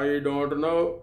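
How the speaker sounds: put-on slow, spelled-out Punjabi-accented English; mock a guard speaking English in a Punjabi accent; lightly hammed-up Punjabi accent. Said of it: "Punjabi में अंग्रेज़ी बोलेगा".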